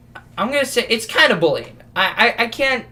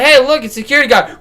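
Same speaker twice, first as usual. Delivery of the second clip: laughing tease; 6 semitones higher, 6 dB louder, faster than usual. Retold or imitated. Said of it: "I was like".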